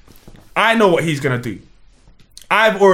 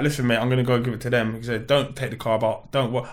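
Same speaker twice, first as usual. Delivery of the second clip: put-on voice; 4 semitones lower, 7 dB quieter than usual. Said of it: "I'm gonna even put on this voice".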